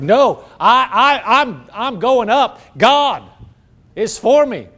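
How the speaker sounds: loud, high, laughing release; joyful outburst. Acted. Worshipper breaking loose in church, loud joyful shout. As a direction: let it burst out of you. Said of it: "you just like".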